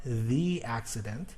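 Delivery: "the accident", with "the" rhyming with see; long E in "the" before "accident"; THE as thee. Shown as a demonstration. Teacher giving a vowel example, "the" as thee. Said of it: "the word the is pronounced the".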